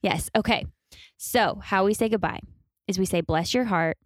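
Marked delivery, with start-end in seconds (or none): 3.2-4.0 put-on Valley Girl voice. Shown as a demonstration. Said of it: "in a very annoyingly Valley Girl voice".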